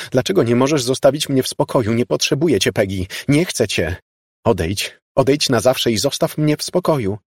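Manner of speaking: fed up and firmly dismissive; angry rejection. Acted. Elizabeth angrily rejects ghost.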